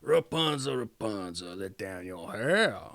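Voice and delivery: low witch voice calling up. A narrator's reading. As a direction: call up to the tower like a witch. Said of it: "she would stand below and cry".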